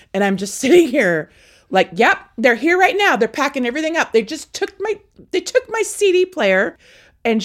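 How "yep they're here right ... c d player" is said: high, loud running report; re-enacted phone report, worked up; agitated tattling. Daughter reports to dad's girlfriend by phone, agitated high tattling.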